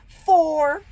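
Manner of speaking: blunt flat answer. Retold or imitated. Coworker's blunt answer reenacted, flat and curt. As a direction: say it plainly, nothing added. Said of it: "She just said it like that".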